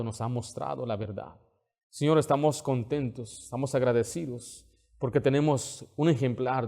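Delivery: earnest pastoral prayer. Acted. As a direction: pray over the congregation. Closing prayer.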